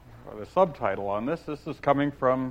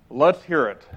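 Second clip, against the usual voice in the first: Humpty; 3 semitones higher, 8 dB louder than usual. Acted. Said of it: "said Humpty Dumpty".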